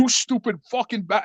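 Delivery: mock yell of a furious uncle; retold angry yell. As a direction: imitate an uncle laying into his nephew. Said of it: "he starts yelling and screaming at me".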